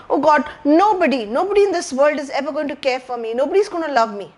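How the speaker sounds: lightly voiced scared child; a touch of a lonely child's fear; child's frightened thoughts. Lost child thinking nobody will love him, mildly frightened voice. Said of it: "may be thinking".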